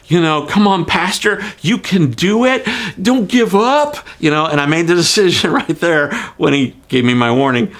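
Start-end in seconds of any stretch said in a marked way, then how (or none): 0.5-4.0 encouraging cop. Retold or imitated. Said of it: "poor police officer who's trying to".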